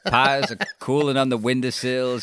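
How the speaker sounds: laughing, lightly voiced Southern American; Southern American accent. Imitating Laurie thanking Peter Jackson in a Southern American accent. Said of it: "love that style of American".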